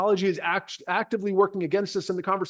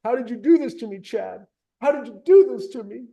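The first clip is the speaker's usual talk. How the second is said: mock tearful client. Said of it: "They're gonna be saying".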